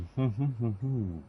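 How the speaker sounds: big open-mouthed yawn. Real, not acted. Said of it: "Excuse my yawns".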